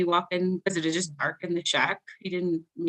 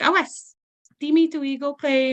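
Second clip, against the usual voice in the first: grandma's voice; 7 semitones higher, 3 dB louder than usual. Retold or imitated. Grandma shoos child out.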